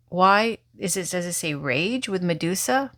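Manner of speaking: ordinary talk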